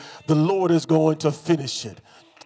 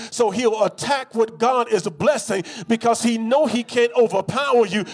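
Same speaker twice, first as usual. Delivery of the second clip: rising preaching; 4 semitones higher than usual. Acted.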